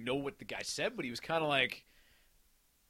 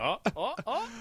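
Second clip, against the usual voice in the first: imitated sound effects; 8 semitones higher than usual. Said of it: "he's making all these sound effects".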